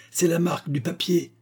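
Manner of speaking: very excited. A narrator's reading. Goodloe showing his friend the watermark, very excited. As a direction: blurt out the discovery. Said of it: "s'écria Goodloe très excité".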